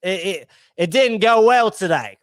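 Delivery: apologetic mate in a mock British accent; Mister Yellow. Host imitating Mister Yellow breaking bad news, put-on British accent. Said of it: "Mister Yellow's just like".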